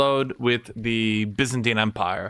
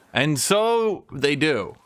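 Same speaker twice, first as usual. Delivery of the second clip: ordinary delivery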